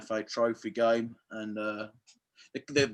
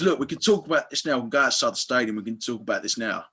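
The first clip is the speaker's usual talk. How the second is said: retold challenge; 4 dB louder, faster than usual. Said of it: "the May and Baker chairman goes".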